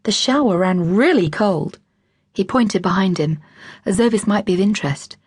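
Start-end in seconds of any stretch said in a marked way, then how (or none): 0.0-1.8 put-on American accent. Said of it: "His accent was distinctly American".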